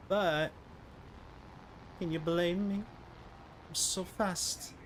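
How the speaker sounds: slow, high, airy boast; hammed-up whispered brag; mock brag. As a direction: playfully gloat about his speed. Mock bragging after near death.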